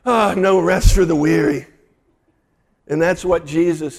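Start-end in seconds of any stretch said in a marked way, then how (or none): 0.1-1.7 sighing grandmother. Retold or imitated. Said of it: "she would let out a big sigh and say".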